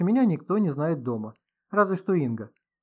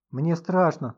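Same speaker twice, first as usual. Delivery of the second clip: ordinary delivery, nothing marked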